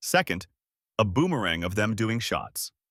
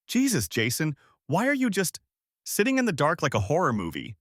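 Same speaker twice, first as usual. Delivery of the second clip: startled; 5 semitones higher than usual. Acted. Startled girlfriend in dark room.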